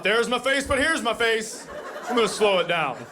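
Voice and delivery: hammed-up kid thinking aloud, slowed; mock sister's thought. Mocking sister's thought about mirror.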